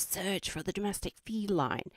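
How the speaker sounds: lightly mock Australian show title; a hint of Australian presenter; Steve Irwin. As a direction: announce it like an Aussie wildlife host. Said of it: "I'd pretend I was Steve Irwin".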